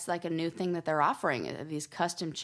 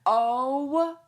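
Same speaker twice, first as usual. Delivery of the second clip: slow, disgusted drawl; 2 semitones lower, much slower than usual. Real, not acted. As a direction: say it with contempt. Reacting to sexy costume.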